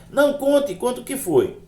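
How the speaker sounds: high-pitched, insistent prodding; imitating an insistent friend; acted urging. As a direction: press eagerly for the secret. Believer presses him to tell.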